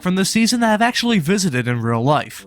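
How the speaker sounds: sore swollen throat, real; talking through a swollen sore throat. Real, not acted. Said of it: "so if I sound jacked up, that's because my throat is swollen".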